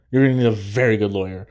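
fast quote broken by laughter; laughing through a quote. Retold or imitated. Vlogger retelling Matt's lawyer joke, laughing fast. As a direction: chuckle while repeating the joke. Retelling a funny movie line.

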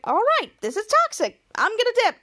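high-pitched retold protest; fed-up exit line. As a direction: announce you're out, pitch swooping up. Fed-up kid announces leaving.

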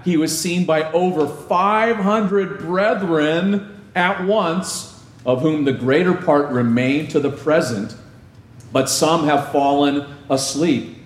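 scripture reading. Acted. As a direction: read the verses slowly, dwelling on each line. Reads scripture slowly.

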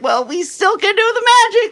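squeaky high mock voice of the magicians; hammed-up high-pitched protest; mock whiny magician. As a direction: play the indignant magicians in a silly high voice. Magicians quoted in story.

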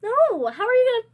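high, loud no; exclaiming. Real, not acted. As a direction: shout it down. Refusing redo of canvas.

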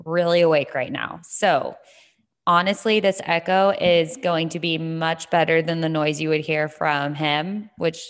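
recorded in an echoing gym; roomy echo on the voice. Real, not acted. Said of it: "I apologize for the echo".

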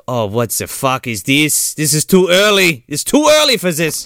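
rising, lightly voiced alarm; Clint panicking. Clint finds blood on the altar, rising alarm. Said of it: "and he's like".

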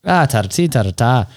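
lilting mock-Irish accent. All he can do for the brewery, Irish accent. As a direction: have a silly stab at Irish. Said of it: "in Irish".

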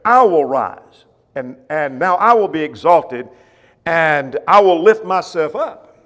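loud, slow declaration of I will rise; proclaiming God's words. Acted. Preacher voicing God to his congregation, loud and slow. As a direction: boom it out like God rising up.

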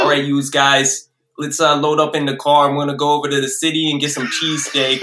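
lightly put-on Jersey accent; New Jersey accent. Shown as a demonstration. Showing off a Jersey accent for friends on request, hammed-up Jersey. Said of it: "give me your best New Jersey accent".

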